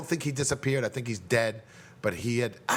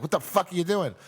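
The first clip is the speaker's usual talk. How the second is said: mildly snappy retold outburst; reenacting a snappy question; 5 semitones higher than usual. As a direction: retell it a little higher, mildly irritated. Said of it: "I was kinda snappy".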